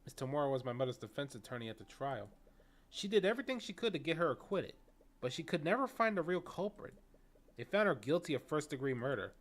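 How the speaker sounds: loud, pressing account of a lost case; Taryn recounting trial. Acted. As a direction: build in force as the story worsens.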